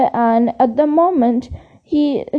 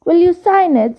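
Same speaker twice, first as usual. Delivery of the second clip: eager; 4 semitones higher than usual. Acted. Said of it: "said Colin eagerly".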